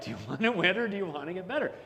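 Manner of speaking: fast, breaking into a laugh mid-line; the preacher amused retelling the catchphrase; laughing Dr Phil quote. Retold or imitated. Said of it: "And he's like".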